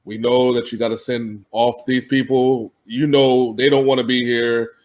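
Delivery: low, soft, calm negotiator voice; soft-spoken executive. Retold or imitated. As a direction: speak softly and evenly. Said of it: "it's just his soft voice".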